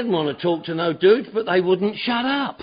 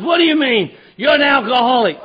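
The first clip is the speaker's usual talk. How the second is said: retold accusation; 3 semitones higher, 4 dB louder than usual. Quoting the accuser.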